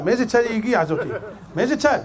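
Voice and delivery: laughing through the joke. Real, not acted. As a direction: chuckle out the question. Joking about wedding guests. (צוחק תוך כדי השאלה)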